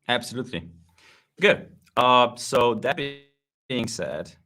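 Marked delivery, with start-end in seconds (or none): 2.0-4.3 buffering stutter on the line; choppy connection breaking words up; choppy audio. Real, not acted. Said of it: "my audio is a bit choppy".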